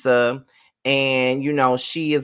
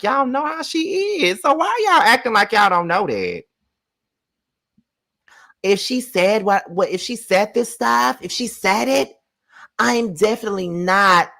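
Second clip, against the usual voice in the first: pitched way up, incredulous; high exasperated rant; 8 semitones higher than usual. Real, not acted. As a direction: scold the viewers, voice rising. Ranting at viewers about Lisa.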